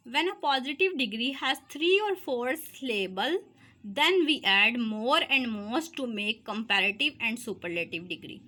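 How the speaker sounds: reads each English word slowly for notes; teacher dictating the rule to students, slow and deliberate; slow dictation read. Shown as a demonstration.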